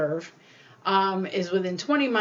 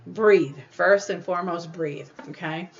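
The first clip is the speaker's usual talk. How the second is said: firm instruction. Shown as a demonstration. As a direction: tell them to breathe, firmly.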